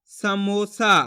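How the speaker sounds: समोसा said as one joined word with a long final "aa"; measured, clearly sounded समोसा; blended syllables. Shown as a demonstration. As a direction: put sa-mo-saa together evenly for pupils. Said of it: "तो मिलके बन जाएगा".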